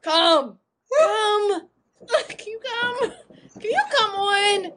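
laughing. Retold or imitated. Laughing through the retold bedroom line.

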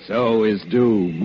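slow, menacing, half-laughing; villain gloats at Santa, slowly; ominous. Acted. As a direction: draw out the threat with relish. Villain's grim pun.

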